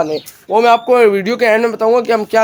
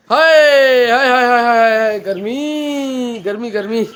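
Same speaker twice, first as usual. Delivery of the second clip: heat groan; much slower than usual. Real, not acted.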